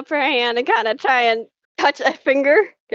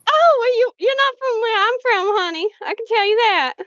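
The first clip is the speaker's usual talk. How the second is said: unexpected pixie voice; 6 semitones higher than usual. Acted. The fairy Bridget introducing herself, in a surprising sultry voice. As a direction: purr it like a brassy southern lady. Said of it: "that voice".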